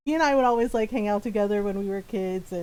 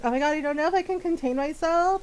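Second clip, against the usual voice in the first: higher, teasing fake swoon; mock flirty; 7 semitones higher than usual. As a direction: ham up a fake crush to troll them. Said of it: "He trolls so hard".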